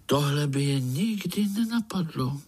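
astonished hushed whisper; wondering whisper. Acted. Spiders in chorus amazed by the uncle, whispered. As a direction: murmur it in awe. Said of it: "podivili se pavoučci sborem".

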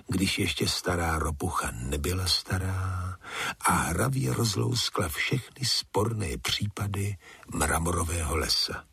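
ordinary delivery, nothing marked

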